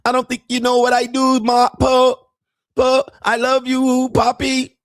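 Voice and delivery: put-on high, broken-English Thai girlfriend voice; mock Thai accent. Mocking Thai girlfriend asking her man for money in a high accented voice. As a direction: imitate a Thai bar girl pleading for money.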